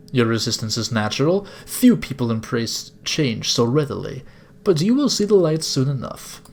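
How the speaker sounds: grand, measured captor with a put-on accent; theatrical older gentleman villain; bad-accented villain. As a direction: preach it like a courteous cult leader. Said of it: "sorry if this is a bad accent".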